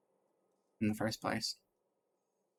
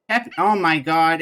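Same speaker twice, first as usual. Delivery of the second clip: a delighted burst, louder; excited gasp; 3 semitones higher, 6 dB louder, slower than usual. Real, not acted. Gamer spotting the robot dog, thrilled. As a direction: squeal of sudden joy.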